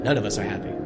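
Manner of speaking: a hint of held-back tears; mild tearful pleading; struggling not to cry. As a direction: keep the voice steady through sorrow. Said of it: "he struggled to control his voice".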